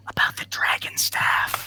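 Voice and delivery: hushed whisper; quieted down. Acted. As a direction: drop to a whisper, as if backing off. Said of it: "quiet down".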